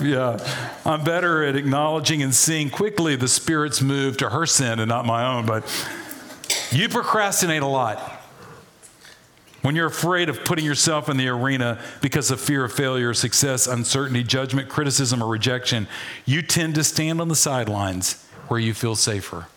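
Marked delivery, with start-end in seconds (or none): none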